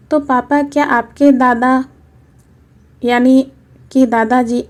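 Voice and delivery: a hint of a hurt little boy asking why; little boy questioning grandpa; young grandson. Child grandson voice.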